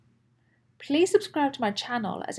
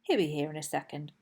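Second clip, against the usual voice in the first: put-on eager, chatty kid-dinosaur voice; lightly voiced young dinosaur, pleading; Dexter the little dinosaur; 3 dB quieter than usual. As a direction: play a lonely little T. rex looking for his friend. Dexter waits and talks.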